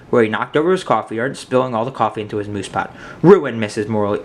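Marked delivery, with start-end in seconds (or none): 3.2-3.6 crying out. A narrator's reading. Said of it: "Mister Morley cried".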